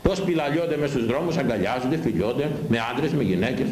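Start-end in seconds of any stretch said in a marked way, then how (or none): none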